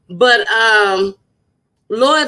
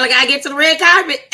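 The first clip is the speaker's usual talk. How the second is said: laughing; 6 semitones higher, much faster than usual. Real, not acted. Excited laugh about red carpet.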